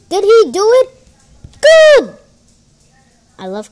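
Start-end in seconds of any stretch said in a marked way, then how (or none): 0.1-0.9 high, loud questioning; loud, rising, eager question; excited suspense. Real, not acted. Suspense builds before result. 1.6-2.2 very high, loud "good"; loud, squealed burst of relief; triumphant cheer. Real, not acted. Trade went through.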